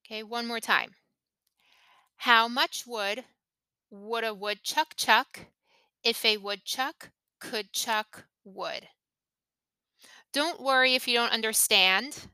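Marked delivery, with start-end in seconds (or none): 2.2-8.9 slow, in short phrases with pauses before "would" and "if"; slow practice demo. Shown as a demonstration. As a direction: break it up for learners, spacing out "could chuck wood". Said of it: "practice our pronunciation and our intonation".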